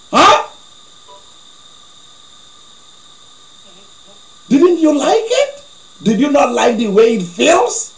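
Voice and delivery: high and loud, teasing the man; mock scolding shout. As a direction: she snaps back at him, loud and high.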